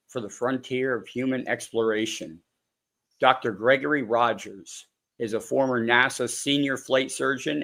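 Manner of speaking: measured, formal host read; scripted podcast introduction. Acted. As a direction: read out the guest's credentials. Reads a scripted guest introduction.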